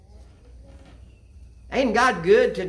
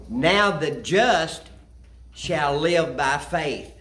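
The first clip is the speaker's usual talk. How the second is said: slow, weighty scripture reading; 3 semitones lower, much slower than usual. Acted. Preacher reading the key verse to the congregation, slow and solemn. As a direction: read it slowly, letting each word land. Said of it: "Listen to this part".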